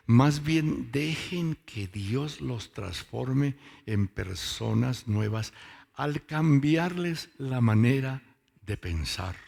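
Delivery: preacher reading scripture slowly; emphatic Bible reading. Real, not acted. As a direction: read the verse out slowly and firmly. Reading Bible version aloud.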